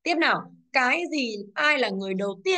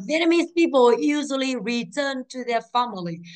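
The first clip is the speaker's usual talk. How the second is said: slow reading; 3 semitones higher, 3 dB louder than usual. Shown as a demonstration. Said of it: "teacher reading the sentence aloud".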